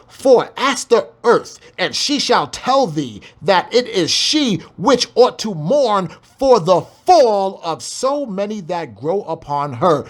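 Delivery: slow, weighty rereading; slow scripture reading. Shown as a demonstration. Preacher rereading verse nine to the congregation, slow. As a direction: read it again slow and grave. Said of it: "one more time".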